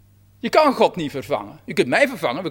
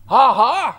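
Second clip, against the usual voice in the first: mocking ha ha; 4 semitones higher, 5 dB louder than usual. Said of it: "staat er in Psalm veertig".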